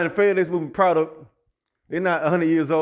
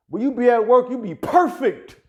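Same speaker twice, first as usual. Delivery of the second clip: mock sweet work voice; 6 semitones higher, 4 dB louder than usual. Mocking how the woman sounds at work, higher and sweet. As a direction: put on the polished office voice.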